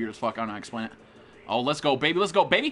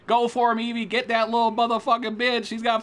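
high, excited battle call; raised, urgent cheering; urging on; 7 semitones higher, 3 dB louder than usual. Real, not acted. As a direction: egg a teammate on mid-fight. Urging teammate on in fight.

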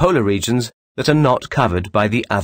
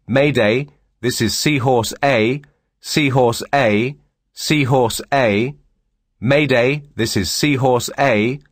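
steady, deliberate mayday call with a slight lift; radio distress call; 2 semitones higher than usual. Shown as a demonstration. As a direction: read the call out clearly, callsign slowed down. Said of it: "For example".

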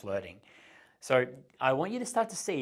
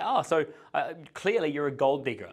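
louder, teasing mock accusation; playful tease; 3 semitones higher, 5 dB louder than usual. Shown as a demonstration. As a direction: poke fun at her with a playful accusation. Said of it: "challenge her in a playful way with a tease".

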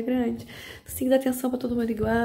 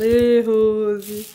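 calling out; 5 dB louder than usual. Real, not acted. Calling out to departed guest.

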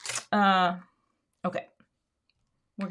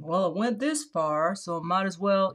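Forrest Gump impression. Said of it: "That's a terrible Forrest Gump impression".

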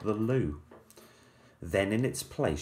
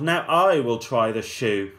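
yelling; 5 dB louder than usual. Acted. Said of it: "who yelled".

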